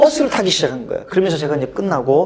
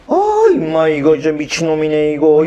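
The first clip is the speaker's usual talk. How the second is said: scornful teacher; 3 semitones lower, 4 dB louder than usual. Retold or imitated. Teacher scoffing at the boy, scornful remark. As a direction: sneer at the crazy kid.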